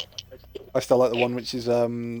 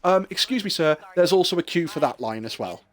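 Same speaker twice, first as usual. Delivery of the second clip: dry announcement; 4 semitones higher than usual. Retold or imitated. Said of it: "gets on the microphone again and goes".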